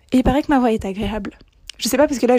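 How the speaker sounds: overexcited. Real, not acted. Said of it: "je suis surexcitée".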